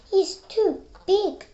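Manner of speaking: high, loud jeer; taunting shout. Acted. Ducks loudly mocking the big duckling.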